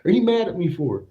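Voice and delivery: high, incredulous mock outrage; hammed-up baffled protest; retold indignant surprise. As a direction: pitch it up like you can't believe it. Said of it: "I was like".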